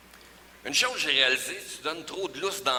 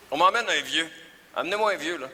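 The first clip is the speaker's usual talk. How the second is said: calling out; 3 semitones higher, 6 dB louder, faster than usual. Acted. Demanding an old man, calling out.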